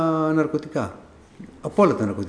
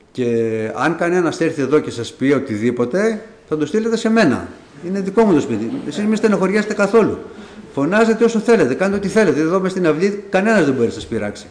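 emphatic reassurance; 4 semitones higher than usual. Retold or imitated. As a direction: back them up with a raised, insistent voice. Reassures the young tenants firmly.

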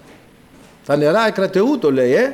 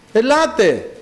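higher-pitched retold call; Noah calling out; 4 semitones higher than usual. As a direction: call people in, voice raised in pitch. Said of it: "φώναζε ο Νόε".

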